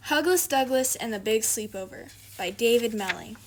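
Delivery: bright storybook title announcement; title read aloud. A narrator's reading. Reader to young listeners, announcing the title. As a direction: announce the book to the children.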